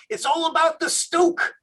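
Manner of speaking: imitating a Midwestern surfer bro; Midwestern accent. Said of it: "the Midwestern accent saying".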